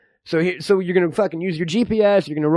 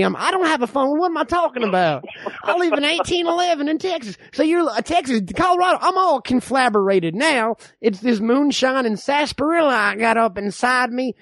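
put-on tipsy backwoods old-timer; old man; 2 semitones higher than usual. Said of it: "I'm the old man".

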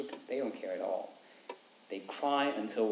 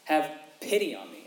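pleading cry; 4 dB louder than usual. Retold or imitated. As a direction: cry out to him, begging. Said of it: "His, his cry is".

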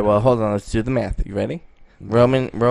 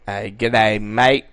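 put-on Australian accent; 4 semitones lower, much slower than usual. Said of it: "my Italian is just an Australian accent".

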